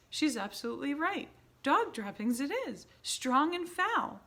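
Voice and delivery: excited agreeing witch. A narrator's reading. Another witch backing Mildred, high and loud. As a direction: savor the foul smell loudly.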